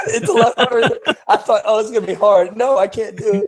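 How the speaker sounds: words breaking into real laughter mid-attempt; laughing. Real, not acted. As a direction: laugh through it while struggling to drink. Trying to drink with no elbows.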